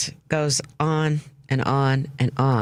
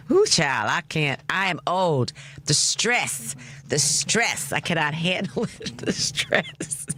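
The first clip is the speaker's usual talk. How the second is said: higher, breathless with laughter; gasping through helpless giggles; hyperventilating; 4 semitones higher than usual. Real, not acted. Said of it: "I'm hyperventilating".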